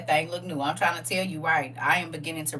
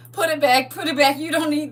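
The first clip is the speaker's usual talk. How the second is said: robotic commanding voice; 6 semitones higher, 6 dB louder than usual. Pretend. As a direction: say it like a stern robot. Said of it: "in my robot voice".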